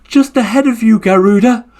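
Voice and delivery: high, smug turtle voice; triumphant little turtle. Acted. Turtle answering the exhausted Garuda bird, high and smug. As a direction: win it with a tease.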